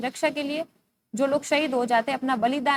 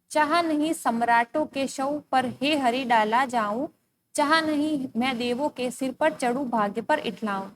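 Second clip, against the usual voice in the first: poem recitation. Acted. Recites the next stanza.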